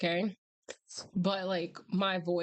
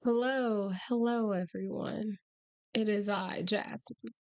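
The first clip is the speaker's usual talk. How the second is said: hoarse, almost no voice; rasping through a lost voice; hoarse cry. Real, not acted. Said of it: "as you can tell, I have no voice".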